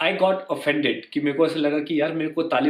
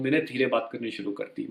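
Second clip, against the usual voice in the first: lowered voice; 5 semitones lower, 6 dB quieter than usual. Retold or imitated. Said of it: "थोड़ी आवाज़ कम कर ली".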